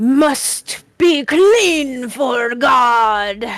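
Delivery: throaty, guttural creature voice, God drawn out. A game master voices its reply to the players in really guttural Aquan. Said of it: "reply in like really guttural Aquan".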